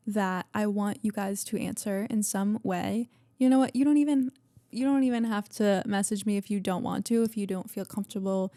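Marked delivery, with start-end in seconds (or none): 3.4-5.2 energetic. Real, not acted. Sudden energetic aside.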